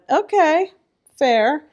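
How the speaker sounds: high, loud mock concession; mock resigned agreement. Retold reply to inner voice.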